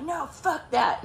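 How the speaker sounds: high, slow mock defiance; retold angry refusal. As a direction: drag out an imitated indignant refusal. Ex refuses to drop it.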